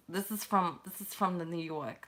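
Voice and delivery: lightly put-on New York talk; a touch of New York accent. Streamer wonders where the accent is from, light New York accent. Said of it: "the New York talk".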